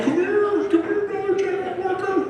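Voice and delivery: high dog-calling voice. Retold or imitated. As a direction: coax like calling a puppy. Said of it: "I'm like".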